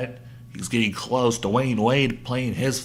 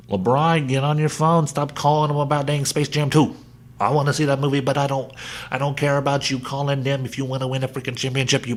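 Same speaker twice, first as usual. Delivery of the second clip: loud rant; 2 semitones higher, 4 dB louder than usual. Real, not acted. Ranting at LeBron directly.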